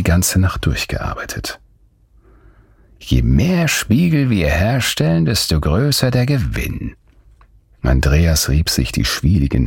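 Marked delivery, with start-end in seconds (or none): 3.0-7.0 eager greed. Acted. Greedy master urging more printing.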